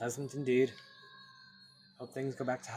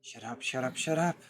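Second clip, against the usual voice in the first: rising, louder shut up; building to a scream; 7 dB louder than usual. Acted. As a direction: lose control on the last one. Breaking under the taunting voice.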